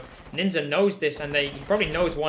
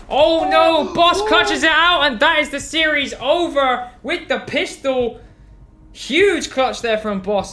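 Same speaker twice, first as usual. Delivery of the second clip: much higher, louder, slow clutch scream; esports caster; 10 semitones higher, 9 dB louder, slower than usual. Real, not acted. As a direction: yell the clutch like the crowd's on its feet. Caster screams the series-winning clutch.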